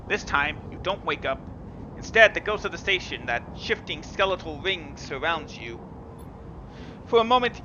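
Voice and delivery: measured, even storyteller read; story narration. A narrator's reading. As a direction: read the game text like an audiobook. Reads visual novel narration.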